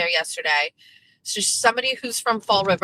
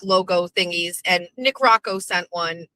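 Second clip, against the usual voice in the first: usual speaking voice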